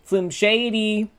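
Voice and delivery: high, slow mocking echo; high squeaky voice. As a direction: squeak the name out. Echoes friend in put-on voice.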